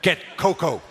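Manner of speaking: acted urgent call for help; urgent summons.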